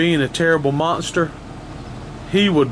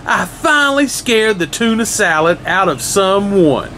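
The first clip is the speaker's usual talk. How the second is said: excited; 5 semitones higher than usual. Acted. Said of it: "cheered Leonardo".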